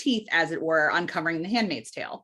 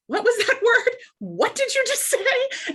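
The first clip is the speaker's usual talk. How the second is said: higher and slower, baffled. Retold or imitated. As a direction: ask like you can't parse it. Baffled at husband's word.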